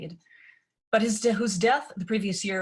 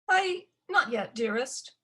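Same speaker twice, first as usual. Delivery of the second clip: higher, slow, hesitant reply; hesitant stepmother; 6 semitones higher than usual. Acted. Stepmother hesitates answering her daughter, high and slow. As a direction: stall nervously.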